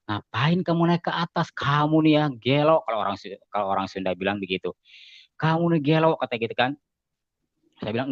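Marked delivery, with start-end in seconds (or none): 0.1-2.8 higher-pitched imitation of a friend's telling-off; lightly acted exasperated reproach; mock scolding. Friend chides him for climbing onstage, mock scolding. 5.4-6.2 raised-pitch imitation of a chiding friend; mock scolding. Friend calls him crazy after the stage, mock scolding.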